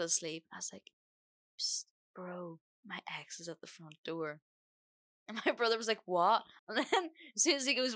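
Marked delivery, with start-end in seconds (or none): 1.6-4.4 hushed psst to wake someone; urgent whisper. Retold or imitated. Waking her sleeping brother about the ex, hushed whisper. 6.0-6.4 loud, rising startled question; startled what. Retold or imitated. Brother woken to bad news, loud startled reply.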